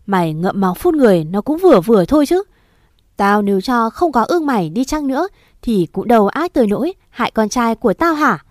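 a stepmother lashing out through tears; cry-yelling at the girl in front of the father; angry, tearful accusation. Acted. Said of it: "mụ vừa khóc".

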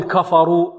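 كفروا with thickened, dark kaf and fa; wrongly heavy first syllables in كفروا. Shown as a demonstration. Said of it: "البعض يفخم الكاف والفاء". (تفخيم الكاف والفاء في كفروا)

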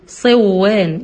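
صوان with the nun fully merged into the waw; merged idgham. Shown as a demonstration. Teacher showing the wrong merged reading of صوان. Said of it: "لو أنا جيت أضغمت هقول إيه".

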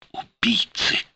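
cried out. A narrator's reading. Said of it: "выкрикнула она".

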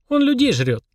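put-on high-pitched girl's warning. A narrator's reading. Polina warning that he eats people, warning. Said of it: "предупредила Полина".

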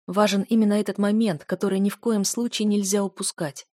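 plain reading voice

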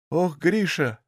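slow, tearful and outraged; indignant tears. A narrator's reading. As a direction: choke out the curse through angry tears. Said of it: "В голосе Дуняшки послышались негодующие слёзы".

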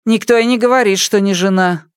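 high dry retort; high tart retort; tart old mother. Acted. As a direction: brush off her son.

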